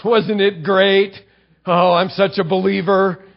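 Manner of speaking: hammed-up show-off calling for attention; a boaster showing off his faith, mock proud; mock boasting. Preacher mocking a showy believer, hammed-up bragging. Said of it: "you don't say".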